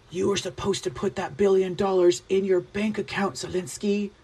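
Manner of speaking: put-on a half-hearted take on old Joe scolding Zelensky; Biden impression. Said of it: "I don't do it quite as well as Biden".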